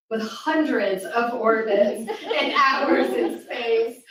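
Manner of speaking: reading through a real laugh after a slip. Real, not acted. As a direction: giggle through the corrected line. Laughs at own misreading.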